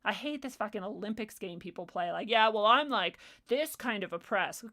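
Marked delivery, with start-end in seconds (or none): 2.3-4.6 mocking whine. Mocking people who claim oppression.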